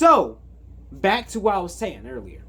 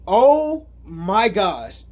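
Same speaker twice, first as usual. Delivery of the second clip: drawn-out exclamation; 2 semitones higher, 6 dB louder, much slower than usual. Real, not acted. Reacting to creepy scene.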